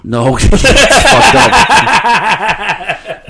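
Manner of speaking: helpless laughter breaking into the words; cracking up. Real, not acted. Host objecting to a joke about Connie, laughing. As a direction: protest while laughing hard.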